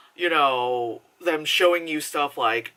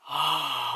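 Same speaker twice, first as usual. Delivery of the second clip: imitated audience sigh; 3 semitones lower, 5 dB quieter than usual.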